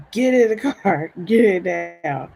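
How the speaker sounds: reenacted pressing demand; urgent mom's order. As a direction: imitate a mother calling out from the car. Mom ordering daughter into car.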